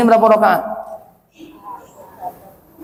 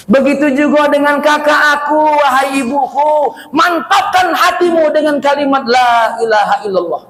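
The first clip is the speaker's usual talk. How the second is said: put-on baby urging; 6 semitones higher than usual. Baby urges mother to stay firm.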